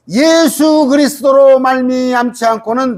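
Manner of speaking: high, held delivery of 예수 그리스도로; emphatic insertion. Real, not acted. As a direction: lift 예수 그리스도로 high and sustain it. Preacher stresses words inserted into verse.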